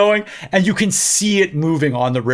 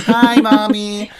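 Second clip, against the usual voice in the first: slow, drawn-out singing call; 4 semitones higher, much slower than usual. Retold or imitated. Kids on a high point calling their mother, mock holler. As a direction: draw it out as if calling far away.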